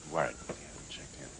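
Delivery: hushed whisper so no one hears. Acted. Partner whispering a worry while they wait undercover. Sneaking into a stranger's ranch.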